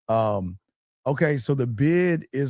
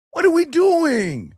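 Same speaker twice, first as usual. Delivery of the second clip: higher still, slow, loud shout; exasperated shout; 3 dB louder, slower than usual. Real, not acted. Coach shouting at the men in chat, slow exasperated shout. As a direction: hammer the question home slowly.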